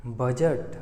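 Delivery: "बजट" stressed on ब, fading on जट; stress on first syllable. Shown as a demonstration. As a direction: let the end of "बजट" fall away. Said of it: "स्वर धीरे होते चले जा रहे हैं".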